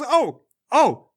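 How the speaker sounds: high, indignant comeback; indignant girl. Acted. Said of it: "And she goes".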